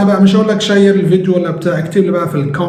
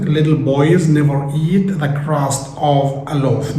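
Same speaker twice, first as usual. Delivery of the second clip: very slow, clear classroom English; slow example sentence; much slower than usual. Shown as a demonstration. Teacher to viewers giving an example sentence, very slowly. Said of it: "teacher gives example sentence".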